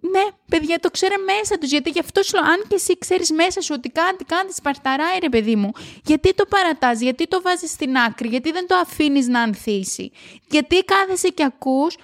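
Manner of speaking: shouting from excitement, not anger; excited shouting. Real, not acted. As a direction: urge them on with real enthusiasm. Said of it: "Νομίζω ότι φωνάζω πολύ σήμερα".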